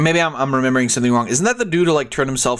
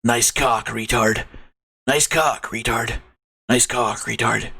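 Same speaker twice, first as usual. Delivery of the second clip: Shadow voice. Acted. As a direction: try out a brooding antihero. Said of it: "how do I do Shadow".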